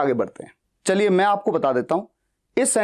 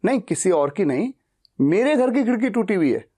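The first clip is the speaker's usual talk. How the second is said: मेरे stressed, slightly raised. Shown as a demonstration. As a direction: lean on मेरे. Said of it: "मेरा focus किस बात पे ज्यादा है".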